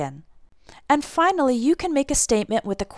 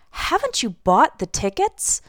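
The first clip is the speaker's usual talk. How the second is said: mildly shocked question, rising at the end; understated surprise; surprised question. Acted. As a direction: ask with a touch of disbelief. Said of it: "I'm just surprised, I'm shocked".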